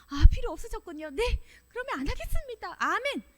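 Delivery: quick, eager acted compliance; brisk obedient reply; ready acceptance. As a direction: accept it promptly, pitch lifting. Models willing acceptance of God's refusal.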